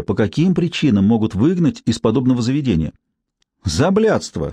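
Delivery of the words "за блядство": hoarse laugh. Acted. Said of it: "хрипло захохотала Цыпка".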